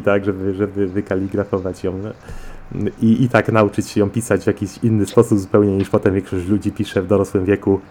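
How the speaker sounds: ordinary talk, nothing marked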